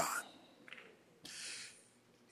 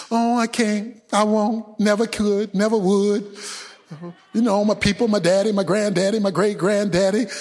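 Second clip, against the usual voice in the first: whiny Israelites. Acted. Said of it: "this whining and whining".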